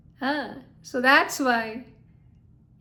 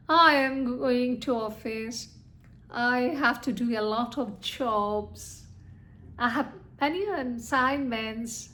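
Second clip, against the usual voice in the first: sweet, calm statements; 3 dB quieter than usual. Shown as a demonstration. Teacher giving students examples of statements, sweet falling intonation. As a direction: state each one sweetly and coolly. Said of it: "So sweetly I'm telling you".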